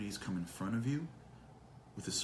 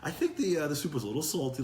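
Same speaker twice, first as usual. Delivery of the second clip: mock complaining. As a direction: pile up petty gripes in mock reluctance. Acted vacation complainer, qualified praise.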